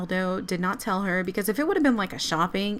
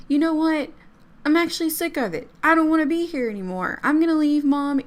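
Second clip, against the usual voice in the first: higher, louder acted teen tantrum; fed-up outburst; 7 semitones higher, 4 dB louder than usual. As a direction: act out a teen storming out on Mom. Acted teen storming out on mother.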